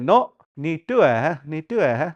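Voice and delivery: "ni due he" said as one joined word; grandpa's correction. Retold or imitated. Grandpa correcting the learner, "ni due he" run together. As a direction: correct them with "ni due he", no gaps. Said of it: "But he said".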